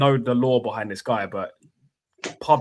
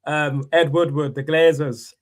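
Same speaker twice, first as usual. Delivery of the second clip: lightly mimicked ranting supporter; mock football-fan despair; Man United fan; slower than usual. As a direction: list the grievances like a fed-up fan. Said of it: "viral Man United fans".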